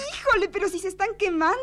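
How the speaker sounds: high and fast, gleeful teasing; high, fast playful squeal of a guessing game; high mock alarm. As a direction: tease them that they're burning hot.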